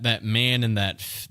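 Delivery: ordinary talk, nothing marked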